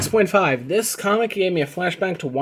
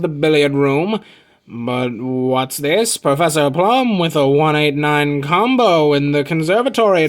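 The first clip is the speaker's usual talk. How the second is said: louder, punchy announcer read; game show announcer; 4 dB louder than usual. Acted. Announcing the Clue puzzle winner like a game show host.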